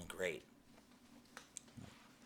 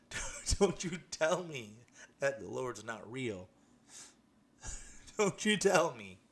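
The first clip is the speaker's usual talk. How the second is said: high, loud, slow triumphant declaration; triumphant exclamation; 4 semitones higher, 5 dB louder than usual. Real, not acted. To listeners doubting God, a high, loud triumphant cry. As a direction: proclaim it with joyful defiance.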